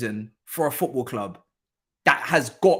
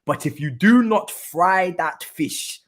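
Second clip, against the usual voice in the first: Arteta impression; much slower than usual. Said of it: "as Arteta would say".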